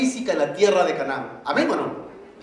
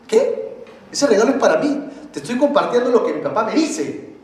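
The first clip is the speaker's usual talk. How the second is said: mock-indignant son, higher pitched; indignant objection; 5 semitones higher, 3 dB louder than usual. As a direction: protest to a friend who wants your gift. Son objects to friend's claim. (protesta indignada)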